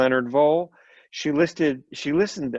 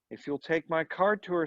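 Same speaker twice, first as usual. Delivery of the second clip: quiet; 4 semitones higher, 6 dB quieter than usual. A narrator's reading. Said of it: "said Mister Mahern quietly".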